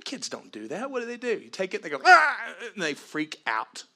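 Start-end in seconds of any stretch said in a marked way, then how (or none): 2.1-2.4 sudden, very high, loud scream; piercing mock tantrum cry; child's shriek. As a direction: shriek like a toddler robbed of candy. Kid freaks out over lollipop.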